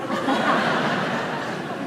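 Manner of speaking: real drawn-out chuckle; amused laugh. Real, not acted. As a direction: laugh at your own joke. Laughing at the trainees' ordeal.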